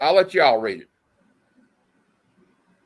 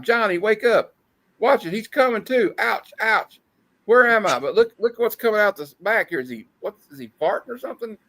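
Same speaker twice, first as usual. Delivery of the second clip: comic character voice; 7 semitones higher than usual. Acted. Reading comic panel dialogue aloud.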